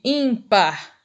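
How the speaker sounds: "ímpar" with the weight on ÍM; first-syllable stress. Shown as a demonstration. Teacher giving a paroxytone example, "ímpar" stressed on ÍM. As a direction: lean on the im of "ímpar". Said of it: "a sílaba mais forte é o im".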